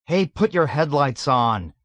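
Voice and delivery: loud call to the driver; shouted. A narrator's reading. Nately shouting at the driver to turn headlights on. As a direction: shout it out over the engine. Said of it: "Nately shouted".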